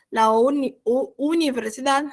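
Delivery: false starts on "universidad", breaking off after "uni-"; real tongue-tied stumble into "universidad"; stumbling pronunciation. Real, not acted. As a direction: trip over "universidad", restarting it before getting it out. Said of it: "essa palavra é difícil de dizer".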